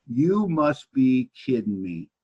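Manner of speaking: very slow, drawn-out disbelief; incredulous retort. Retold or imitated. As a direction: stretch every word in mock disbelief. Retold angry retort to his wife.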